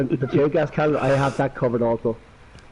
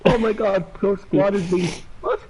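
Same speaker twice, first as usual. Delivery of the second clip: mock shock; 5 semitones higher, slower than usual. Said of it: "Max goes".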